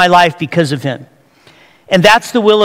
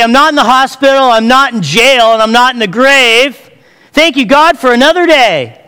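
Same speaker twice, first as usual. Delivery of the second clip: excited grateful prayer; 4 semitones higher, 3 dB louder than usual. Acted. Grateful morning prayer acted out.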